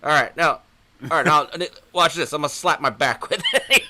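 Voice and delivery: loud goofy zebra voice. Pretend. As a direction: ham up a talking zebra, laughing. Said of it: "we started doing the zebra voice".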